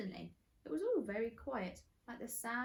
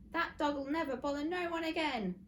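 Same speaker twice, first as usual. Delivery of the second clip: gloating villain; 7 semitones higher, 5 dB louder than usual. Acted.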